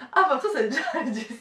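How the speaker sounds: giggling through the question; laughing while talking. Real, not acted. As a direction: laugh mid-sentence. Ride scoprendo la registrazione.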